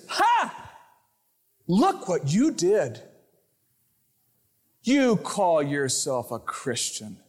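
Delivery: a lightly voiced mocking accuser, slow and sneering; the accuser's voice. Accuser taunting the fallen Christian, mildly sneering. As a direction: jeer at the sinner with slow contempt. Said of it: "You ever hear that voice?".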